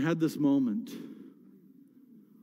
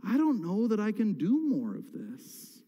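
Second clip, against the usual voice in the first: slow, spent prayer of giving up; weary plea to God; 4 semitones higher, slower than usual. Retold or imitated. Pastor retelling his cry to God, slow and weary. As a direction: let each word drag out, worn down and done. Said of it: "crying out to God".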